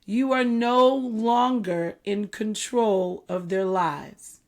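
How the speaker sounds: slow, deliberate emphasis. Shown as a demonstration. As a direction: spell it out slowly, stretching NO LONGER. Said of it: "Okay, I'll say that slower".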